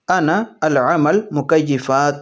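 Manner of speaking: very slow, drawn-out "انا العمل مکیفات"; slow Arabic demo. Shown as a demonstration. Teacher modelling the Arabic sentence slowly for viewers. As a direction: stretch each word of "انا العمل مکیفات". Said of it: "عربی میں اس طرح سے بولیں گے".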